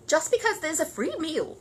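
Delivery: high, indignant voice; indignant housekeeper. Acted. Housekeeper disapproving of Mr Curry, indignant. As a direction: scold the freeloader. Mrs Bird indignant about neighbour.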